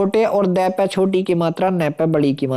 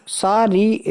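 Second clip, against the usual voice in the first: ordinary talk, nothing marked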